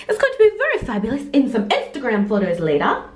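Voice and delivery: slipping into an Australian accent; a hint of accidental Australian accent. Real, not acted. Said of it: "got an Australian accent".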